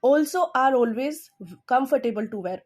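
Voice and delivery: "also" hit loud and rising, slow; slow model reading, also stressed. Shown as a demonstration. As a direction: punch also, then ease down. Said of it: "फिर से जोर लगाया है मैंने, फिर से stress लगाया है".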